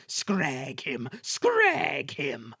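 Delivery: bay for revenge; yelling. A narrator's reading. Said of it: "they yelled".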